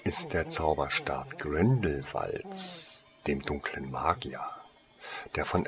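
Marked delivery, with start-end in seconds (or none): 0.0-3.1 slow and hushed after a dramatic pause; effective pause. A narrator's reading. Shopkeeper reveals her most famous antique, slow and hushed. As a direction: let the pause hang, then reveal it slowly. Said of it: "sie machte eine effektvolle Pause".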